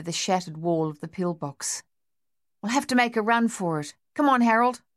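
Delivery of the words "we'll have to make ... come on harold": quick, higher urging to run; pressing, fast and raised; urgent soldier. Acted. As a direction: push him to move now. Dave urging escape under fire.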